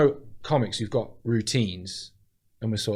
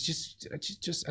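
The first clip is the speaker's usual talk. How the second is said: exasperated whisper; 6 semitones higher, 13 dB quieter, slower than usual. Retold or imitated. Wife voiced, exasperated.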